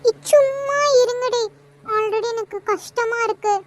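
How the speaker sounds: slow, tearful plea; holding back tears, begging them to stop; slow teary voice, hurt by seeing him; crying. Real, not acted. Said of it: "என்ன கலை அழுகுற?".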